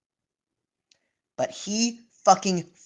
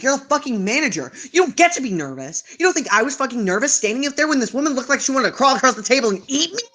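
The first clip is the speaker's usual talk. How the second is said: mock furious comeback, higher; imagined telling off; 5 semitones higher than usual. Unspoken rebuke to the folding manager, heated. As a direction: tell the manager off in your head. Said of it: "in my head I was like".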